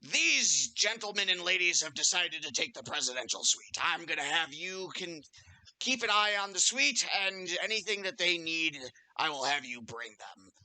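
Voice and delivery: lightly voiced barkeep giving orders; a touch of the grand host, emphatic at first; innkeeper. Barkeep instructing the barmaid about guests, lightly voiced innkeeper.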